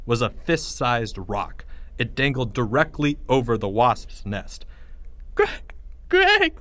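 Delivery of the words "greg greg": high-pitched terrified plea; shuddering breaths. Acted. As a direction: gasp it out through shuddering breaths. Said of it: "he said through shuddering breaths".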